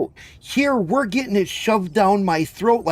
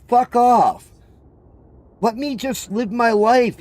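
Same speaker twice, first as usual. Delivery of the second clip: mock snapped retort; 5 semitones higher, slower than usual. Brushing off people telling him what to do, snapped curse. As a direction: spit it out like you're fed up.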